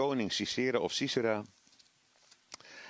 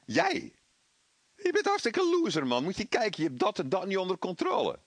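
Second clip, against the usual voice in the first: much higher, jeering mock devil voice; devil's mockery; 7 semitones higher than usual. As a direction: sneer down at the listener as the tempter. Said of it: "Dat die duivel zegt". (spottende duivel, veel hoger en luider)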